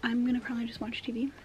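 speaking around whitening strips; talking with whitening strips. Real, not acted. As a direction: mouth full of whitening strips. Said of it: "I'm talking funny 'cause I have my whitening strips in".

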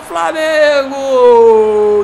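building from laughing to roaring; explosive goal commentary. Real, not acted. Goal scored, building celebration.

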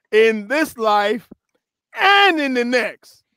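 deliberate reading, stretched and rising; slow and intentional. Shown as a demonstration. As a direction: linger on each phrase, building in pitch. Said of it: "read it slow and intentional".

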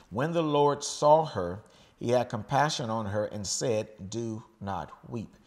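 slow, weighty reading of the verse; scripture reading. Acted. Preacher reading the verse to the congregation, slow and solemn. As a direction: read it out slow to the church.

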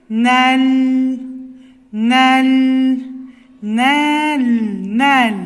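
"Nel" repeated alone, loud and sustained; syllable by syllable. Shown as a demonstration. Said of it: "İkinci hecem nel". (heceleyerek "nel")

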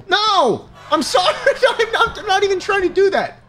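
high, fast laughing protest; laughing frantic sorry; panicked high apology. Real, not acted. Game crowd screams again.

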